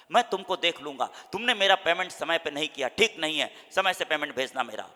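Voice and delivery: loud threatening rant; angry phone threat. Retold or imitated. A creditor shouting on the phone over late payment. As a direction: yell down the phone at a late payer. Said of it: "चिल्ला के बात मत करो".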